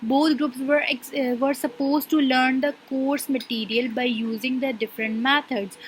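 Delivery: slow, deliberate dictation pace; reading a definition aloud. Shown as a demonstration. Teacher reading a textbook definition to her class, slowly. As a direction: read each word out slowly for students to follow. Teacher reads out example scenario.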